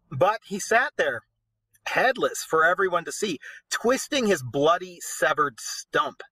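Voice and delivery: steady storyteller reading aloud; story narration. A narrator's reading. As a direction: read it like an epic tale. Reads the poem aloud.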